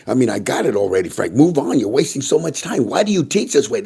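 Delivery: a fed-up viewer losing patience; annoyed complaint. Retold or imitated. Viewer complaining that Frank repeats everything, rising exasperation. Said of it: "and he says".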